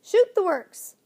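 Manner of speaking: loud, high excited shriek; ferocious bird shriek. A narrator's reading. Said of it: "shrieking ferociously".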